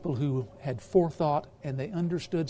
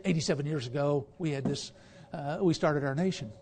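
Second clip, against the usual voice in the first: quick, offhand, matter-of-fact reading; casual throwaway phrasing, slightly faster; plain casual wording; 3 semitones lower, faster than usual. Shown as a demonstration. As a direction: toss it off like an everyday remark. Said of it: "why didn't he just say".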